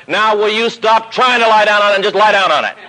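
half-laughing, at wit's end; exasperated plea. Retold or imitated. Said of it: "but he was biting his teeth now".

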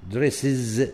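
دريسز ending in a clear iz; final iz sound. Shown as a demonstration. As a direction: end دريسز with an iz syllable. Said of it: "لاحظ إز آخر شيء". (نطق دريسز بمقطع إز في الآخر)

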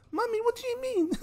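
put-on high, soft, pleading kid; a hurt little kid asking mum; child voice, high and hushed; whiny child. Child voice in acted skit.

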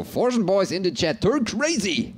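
high, excited shout-out; hype call. Acted. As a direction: whip the chat into a frenzy. Caster hypes up the chat.

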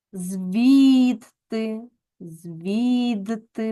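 "звідти" with a distinct Д before Т; clearly voiced consonant. Shown as a demonstration. Teacher shows Д staying voiced before Т, clearly voiced consonant. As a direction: keep Д voiced in "звідти", drawing out the І. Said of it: "вимовляється дзвінко".

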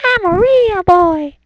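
loud, insistent claim; loud declaration. Pretend. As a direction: proclaim it to everyone. Repeats the line louder.

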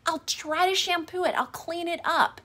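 lightly voiced apologetic wife. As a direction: voice her anxious, rushed apologies. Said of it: "And you're like".

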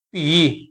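ਭੀ held on a long "ee"; long-vowel demonstration. Shown as a demonstration. Teacher spells out the vowel, careful long ਭੀ. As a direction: say ਭੀ alone with a full long "ee". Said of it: "ਭੱਬੇ ਨੂੰ ਬਿਆਰੀ ਭੀ".

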